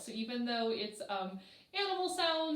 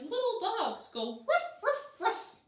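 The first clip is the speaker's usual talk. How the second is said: high, louder yappy ruff ruff; little dog barks; 11 semitones higher, 5 dB louder than usual. Acted. Reader voicing little dogs, high yappy barks. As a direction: yap like a tiny dog. Reading animal sounds book.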